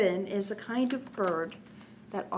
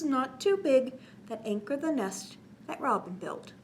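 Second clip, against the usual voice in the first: put-on reading to children. A narrator's reading. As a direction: bounce the rhyme for little listeners. Reads cumulative rhyme to children.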